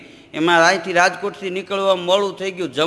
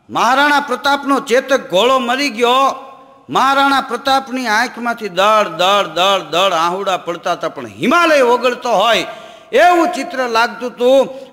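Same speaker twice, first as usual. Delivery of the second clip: louder, raised storytelling voice; dramatic telling; 3 semitones higher, 4 dB louder than usual. Acted. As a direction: build it up like a heroic epic. Dramatic heroic tale telling. (ઊંચા અવાજે નાટકીય કથન)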